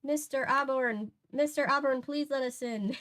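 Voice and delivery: a second, milder go at the Irish lilt; Irish accent. Acted. Woman at the door repeating her plea, lighter Irish accent. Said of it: "The Donnells are probably Irish, right?".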